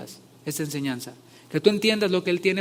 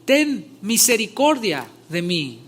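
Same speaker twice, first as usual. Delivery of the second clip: high, loud desperate cry, slowing at the end; 6 semitones higher, 7 dB louder, slower than usual. A narrator's reading. Blind beggar crying out to Jesus, loud desperate cry. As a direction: call out to Jesus from the roadside. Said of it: "comenzó a dar voces".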